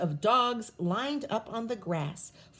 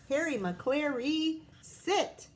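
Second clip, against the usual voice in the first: commanding sit; 4 semitones higher, slower than usual. Acted. Reading title as commanding dog.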